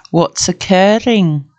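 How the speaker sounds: light Welsh lilt, drawn out slowly; slow mock-Welsh catchphrase; Welsh accent. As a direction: put on your best Welsh accent. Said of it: "In my best Welsh accent".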